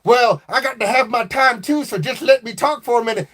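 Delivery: southern country twang voice butting in. Acted. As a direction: play the chatty southern country cousin. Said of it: "your down south country twang voice".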